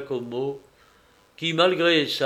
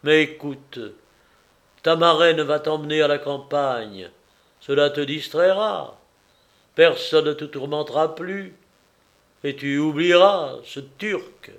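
lightly voiced father, urging; persuading father; 5 dB louder than usual. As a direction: coax a daughter, pressing harder at the end.

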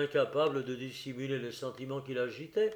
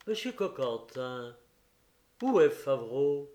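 harsh, near-menacing; 5 dB louder than usual. Acted. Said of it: "d'une voix âpre et presque menaçante".

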